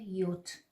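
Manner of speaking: یوت with a y sound, the German J; German letter J. Shown as a demonstration. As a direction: say یوت as "yot". (تلفظ آلمانی یوت)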